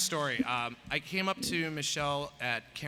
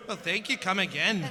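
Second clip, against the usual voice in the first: attempted Indian accent, slightly raised; Apu; 4 dB louder than usual. Shown as a demonstration. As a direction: try out a cartoonish Indian accent. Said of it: "sounding like Apu from The Simpsons".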